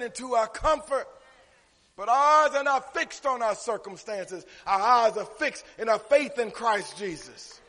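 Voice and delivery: preacher hammering out key words; emphatic preaching. Real, not acted. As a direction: drive each phrase home to the congregation. Preaching to congregation.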